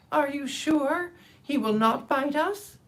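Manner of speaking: high, slow, fearful little squeak; the mouse queen peeking out nervously; timid mouse. Acted. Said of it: "asked in a timid voice".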